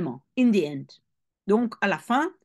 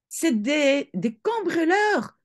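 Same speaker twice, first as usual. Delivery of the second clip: mother's hiss; 7 semitones higher than usual. Acted. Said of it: "sifflait la mère".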